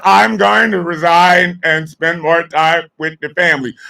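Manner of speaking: lightly voiced prim resignation line; a hint of a sheepish official; mocking Larry Summers. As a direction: parrot his excuse snidely. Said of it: "Larry Summers talking about".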